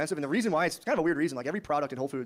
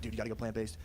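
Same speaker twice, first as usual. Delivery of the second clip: mild brother pitch; 6 semitones lower, 9 dB quieter than usual. Retold or imitated. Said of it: "He's like".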